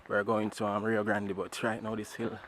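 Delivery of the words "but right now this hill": out of breath on the climb; tired and winded, pushing uphill; cycling hard. Real, not acted. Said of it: "is killing me".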